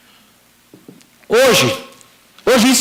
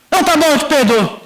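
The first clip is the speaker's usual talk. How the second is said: higher-pitched giving in, acted out; impatient concession; 6 semitones higher than usual. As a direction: imitate a father conceding to end it. Father hastily gives in, retold.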